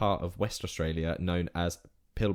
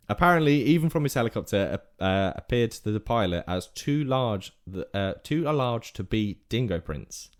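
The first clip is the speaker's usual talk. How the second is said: story read in put-on Aussie; Australian accent. Telling the lost-dog story on request, Australian accent. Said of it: "whole rest of the segment in Australian accent".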